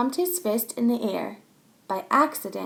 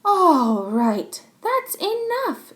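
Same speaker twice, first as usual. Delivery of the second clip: firm, slower call to order; teacher stopping a fight; 8 semitones higher, 6 dB louder, much slower than usual. Acted. Missus Wushy stops the bickering, firm. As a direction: break it up. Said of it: "said Missus Wushy".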